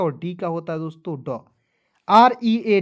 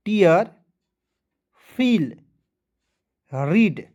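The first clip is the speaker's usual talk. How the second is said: repeat-after-me drill; 4 dB louder, much slower than usual. Shown as a demonstration. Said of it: "मेरे साथ बोलना है".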